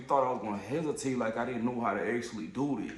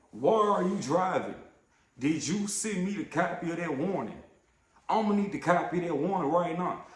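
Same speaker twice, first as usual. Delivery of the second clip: aggressive retort; 4 semitones higher than usual. Retold or imitated. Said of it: "aggressive ass attitude".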